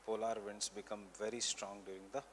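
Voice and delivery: measured note-giving, repeating phrases for writers; teacher dictating notes for students to copy; classroom dictation. Real, not acted. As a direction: dictate in short chunks with long pauses.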